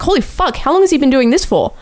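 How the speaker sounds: a hint of disbelief, as if just seeing it; shocked exclamation. Retelling his reaction to the band video, surprised.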